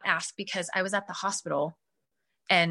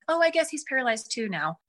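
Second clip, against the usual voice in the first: nonchalant doctor; 4 semitones higher than usual. Retold or imitated. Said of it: "they just said it so nonchalantly".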